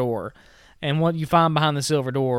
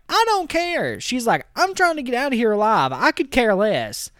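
mock exasperation; 9 semitones higher than usual. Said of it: "So Margot's like".

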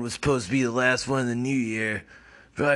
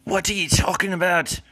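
Paul Joseph Watson; 6 semitones higher than usual. Acted. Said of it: "said Paul Joseph Watson".

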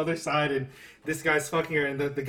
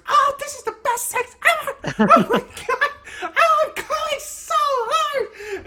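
over-the-top mock orgasm, much higher; theatrical fake orgasm. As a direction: overact a fake orgasm, laughing. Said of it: "the theatrics, she just goes".

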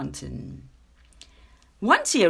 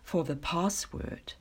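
mildly haughty, measured address; a touch of lordly disdain. Acted. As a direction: open grandly, then look down on the others. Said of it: "he said in a haughty tone".

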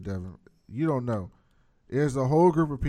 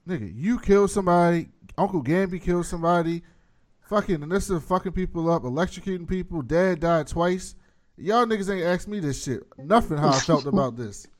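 mock angry rant; 6 semitones higher, 3 dB louder than usual. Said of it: "Jen was like".

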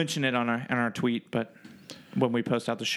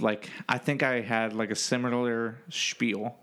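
slurring. Real, not acted. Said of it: "Why am I talking like I'm drunk?".

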